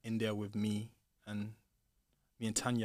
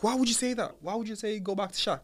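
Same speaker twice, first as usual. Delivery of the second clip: retold pissed-off; 10 semitones higher than usual. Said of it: "She got pissed".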